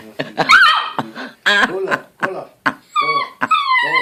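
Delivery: high, loud call to a pet; calling the dog. Real, not acted. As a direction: sing the dog's name up high.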